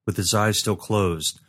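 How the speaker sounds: ordinary delivery, nothing marked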